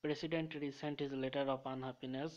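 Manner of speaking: very slow, word by word; slow dictation. Shown as a demonstration. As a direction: read the memory sentence slowly for students to copy. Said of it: "একটা আলাদা ছন্দ দিয়ে মনে রাখবো".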